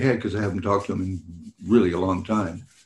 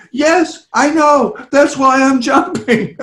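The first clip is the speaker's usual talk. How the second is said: laughing reply; 7 dB louder, slower than usual. Retold or imitated. His cheeky reply, laughing.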